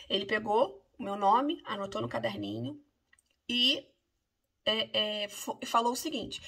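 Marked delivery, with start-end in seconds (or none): none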